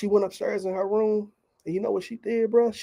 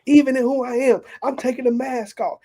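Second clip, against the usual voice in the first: raised, louder voice of an excited father retold; acting out an excited dad; 3 semitones higher, 4 dB louder than usual. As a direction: retell his urgent declarations with mounting energy. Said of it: "I heard my father excited".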